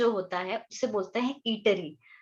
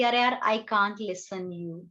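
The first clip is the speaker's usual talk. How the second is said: slow teaching demo; 2 semitones lower, slower than usual. Shown as a demonstration. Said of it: "तो मैं बोलूंगी".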